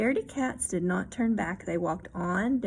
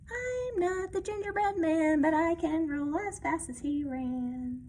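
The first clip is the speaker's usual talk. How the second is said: coin's cheeky rhyme; 7 semitones higher than usual. Acted. Coin taunting like gingerbread man.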